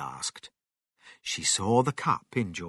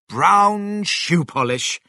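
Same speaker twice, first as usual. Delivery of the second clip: high, loud, drawn-out words; triumphant presentation; 9 semitones higher, 7 dB louder, slower than usual. A narrator's reading. George's father presenting the polish, triumphant. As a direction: announce the find slowly and grandly.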